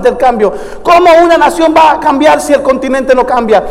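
driving chain of rhetorical questions; fervent preaching. Real, not acted. Preacher urging the congregation that change begins at home, fervent preaching. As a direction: preach it insistently, building in force.

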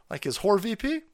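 usual speaking voice

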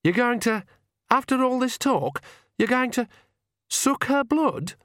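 very high, horrified disbelief; halting, high-pitched outrage; appalled. A narrator's reading. Agnes confronting the Count, appalled and high-pitched.

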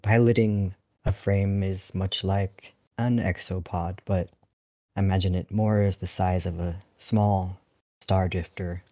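lightly stately, measured delivery; formal, old-fashioned talk. Acted. Dolphin pilot explaining frames to a schoolchild, mildly formal. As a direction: explain it in a formal elder's register. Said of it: "you talk like that".

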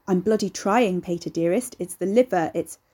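posh voice with strained patience; lightly put-on posh voice, patience wearing thin. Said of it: "He put on a posh voice, dripping with strained patience".

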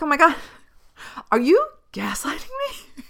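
high, hushed, suspicious whisper; paranoid whisper. Retold or imitated. Retelling how she whispered to the nurse in paranoid suspicion. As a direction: whisper it as if you've caught her out. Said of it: "I started getting like".

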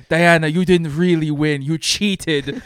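put-on stern aunt in a rough Greek accent; mock Greek accent. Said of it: "in this weird Greek accent".

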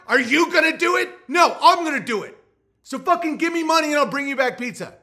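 high, loud hammed-up shouting; full fake yell in the argument; mock shout. Acted argument peaks.

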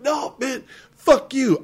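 high-pitched mock outburst; mock drunken defiance. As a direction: squeal it like an indignant drunk kid, imitating him. Drunk kid defying sergeant, retold.

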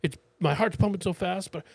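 mildly frantic sob story; retold freaking out. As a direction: imitate a panicky man piling up his troubles. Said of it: "he's just freaking out".

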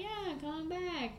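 put-on slow, lilting British accent; drawn-out mock British accent. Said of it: "say that in a British accent".

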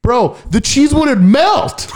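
slow, high fake-crying whine; mock whine. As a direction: wail it like a hammed-up sob. Exaggerated whine about cheese.

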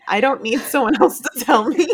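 a laugh breaks into the middle of the line; amused, half laughing. Real, not acted. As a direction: chuckle through it. First take, laugh mid-line.

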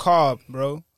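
New York car, loud, drawn out. Shown as a demonstration. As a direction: lean into the Brooklyn car. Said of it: "listen how we say car".

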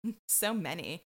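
lightly imitating a wine snob, low and soft; snooty wine connoisseur. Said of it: "swirl my white wine and go".

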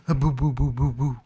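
loud mock ghost boos; hammed-up ghost, trying to scare; spooky ghost boo. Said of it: "I'm scary".

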